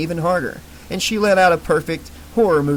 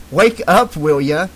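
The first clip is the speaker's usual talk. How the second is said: impatient; 5 dB louder than usual. Acted. Snapping at dozing girl.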